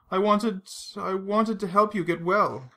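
high, slow, halting plea; strangled voice, tearful. A narrator's reading. Vesper, eyes filled with tears, strangled and pleading. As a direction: choke up and restart the sentence. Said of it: "Her voice strangled".

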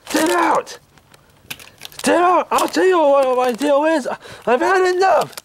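high, angry shouting. Acted. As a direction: yell them out of the room. Escalating shouted argument.

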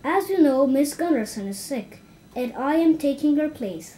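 small teacher taking charge; announcing to class. Acted. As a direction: address the whole class firmly. Stuart addressing the class.

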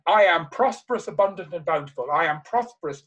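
emphatic, repeated declaration; passionate affirmation. Shown as a demonstration. Speaker showing an audience how to affirm prosperity, with passion. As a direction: punch the opening words with conviction. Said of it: "You say it with passion".

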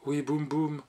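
imperious little plea; ardent, pleading demand. A narrator's reading. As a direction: beg and order at once. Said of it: "d'un ton ardent et suppliant et impératif".

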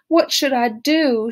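high, loud, desperate wail. A narrator's reading. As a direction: cry it out in helpless distress. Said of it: "she wailed".

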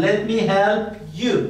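slow, stretched-out model sentence; teacher's slow drill; slow model phrase. Shown as a demonstration. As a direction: say it slowly for learners to copy. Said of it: "slow teaching model".

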